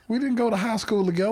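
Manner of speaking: fired-up, high-pitched refusal; worked-up rant. Real, not acted. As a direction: shut the idea down with exasperated energy. Ranting at the imagined text.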